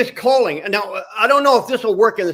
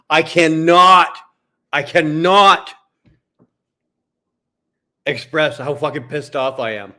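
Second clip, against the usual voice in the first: real anger; 4 semitones lower than usual. Real, not acted. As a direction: force each word out through real rage. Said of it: "I'm so mad right now".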